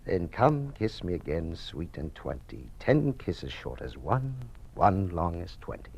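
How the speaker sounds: slow, lightly recited verse; reciting Shakespeare. Acted. Father to daughter, light slow Shakespeare recital. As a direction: savour each line like a gentle recital.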